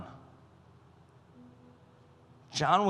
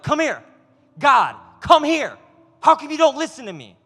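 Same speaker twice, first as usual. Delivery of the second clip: raised, insistent calling like to a stubborn dog; mock-frustrated, pulling rank, higher and louder; impatient demanding call; 4 semitones higher, 5 dB louder than usual. Frustrated believer demanding God come: raised, impatient. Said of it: "And we get angry".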